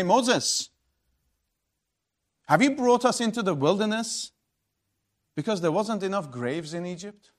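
high, mock-incredulous question to Moses; sarcastic. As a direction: ask it with biting sarcasm, starting high. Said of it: "the first one is full of sarcasm".

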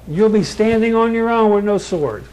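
forceful preaching. Real, not acted.

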